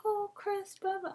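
high mocking mom voice brushing her off; teasing impression of mom waving it off. Mimicking mom dismissively.

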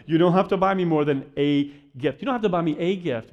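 single out the word "a", pronounced like "day" without the d; stress on A. Retold or imitated. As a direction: lean on "a" as "ay", meaning just one. Mock protest to gift-giving mom.

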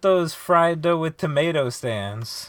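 high-pitched taunting retort; heated jab. Real, not acted. Co-host mocking fried dough stands, heated. Friends' heated food argument.

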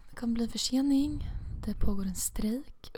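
announcement voice. Retold or imitated. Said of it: "så bara".

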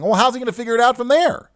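high, fast indignant protest; rapid, high-pitched outraged question; retold yelling. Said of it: "so I started yelling".

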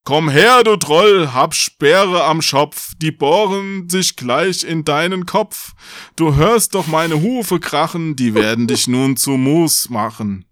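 high, loud big-goat challenge easing off; chanted battle cry, slowing; challenging call. A narrator's reading. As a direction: shout a taunt at the troll. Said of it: "senkte den Kopf und rief".

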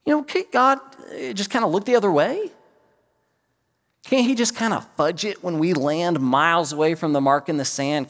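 imploring voice asking God to look away; pleading bargainer. Retold or imitated. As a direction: talk him down, begging for leniency. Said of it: "I would say".

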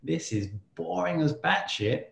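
the nagging voice in your head, half-played; mock inner voice. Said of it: "this inner voice saying".

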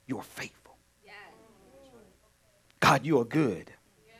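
voicing the faithful's prayer. Shown as a demonstration. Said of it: "they say to God".

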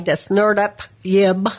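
Desnerdep Yib, presented by reversed, slowly; backwards speech. Shown as a demonstration. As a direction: sound out the words in reverse. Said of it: "how you talk backwards".

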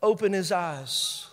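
lightly acted plea to God, unhurried; praying. Elisha praying for his servant's eyes, slow and solemn. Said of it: "Elisha prayed".

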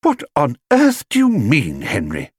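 a wife startled by her husband's words; alarmed exclaiming. A narrator's reading. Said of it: "exclaimed Missus Brown".

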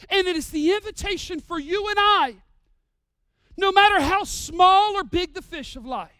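loud, high preaching appeal; full-force preaching. Acted. Preacher urging believers, loud rising appeal. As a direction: drive the invitation home.

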